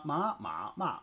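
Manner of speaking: ma, ma, ma said each with a different tone; the ma syllables demonstrating the four tones; four Mandarin tones. Shown as a demonstration. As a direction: run ma through the tones one by one. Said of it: "it'd be ma".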